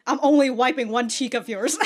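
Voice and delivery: a line voiced through laughter; can't hold it together while quoting; laughing through it. Mock voicing the character, laughing through the line.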